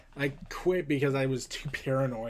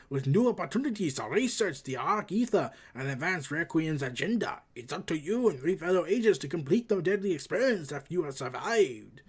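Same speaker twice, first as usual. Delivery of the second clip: put-on voice with swooping, sing-song pitch; hammed-up game trailer narration; dramatic briefing read. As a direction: read it as a theatrical mission briefing. Reads game description in character.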